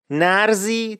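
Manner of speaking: slow نرزی as "narzi", r before z; Isfahani pronunciation. Shown as a demonstration. Teacher explains the word for nazri, Isfahani pronunciation. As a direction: say نرزی with r and z swapped. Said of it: "تلفظ درست نظری هست در لهجه".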